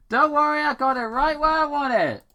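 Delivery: high, loud, fast boast; cocky hero. Acted. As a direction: brag with total confidence. Sonic controls the drone.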